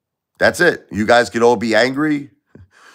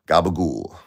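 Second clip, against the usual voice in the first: Tony Soprano gabagool; 4 semitones lower than usual. Retold or imitated. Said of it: "Tony Soprano".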